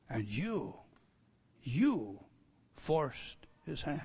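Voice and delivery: low and soft; hushed accusation. Real, not acted. Preacher quietly telling listeners they forced Pilate's hand. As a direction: lean in quietly.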